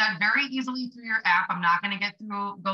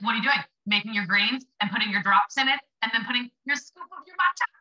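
mocking friend. Friend John teasing her routine, light mocking voice. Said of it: "he was, like, mocking me".

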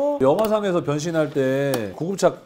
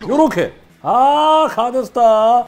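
much higher and louder, thrilled cry of the name; excited shout; 8 semitones higher, 13 dB louder, slower than usual. Real, not acted. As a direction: shout the robot's name in delight. Helmet pops out, shouts name. (신나서 이름을 크게 외치기)

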